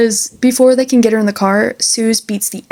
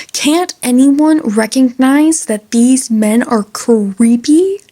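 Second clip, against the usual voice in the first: exasperated appeal; 2 semitones higher, slower than usual. Acted. Mock appeal about creepy men.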